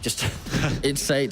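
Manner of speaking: muffled behind a hand; hand over mouth. Real, not acted. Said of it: "I had my hand over my mouth right there".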